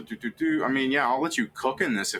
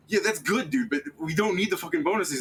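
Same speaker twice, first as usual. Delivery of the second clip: high wizard voice; 9 semitones higher than usual. Acted. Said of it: "And they were like".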